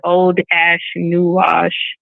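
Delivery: careful, drawn-out reading of a name; slow name reading. Real, not acted. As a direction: sound out an unfamiliar screen name slowly. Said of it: "I gotta say it slow".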